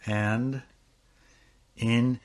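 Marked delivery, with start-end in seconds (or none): 1.8-2.2 drawn-out alien-like name; slow odd pronunciation. Real, not acted. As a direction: stretch the name out slowly and strangely. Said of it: "it sounds like an alien".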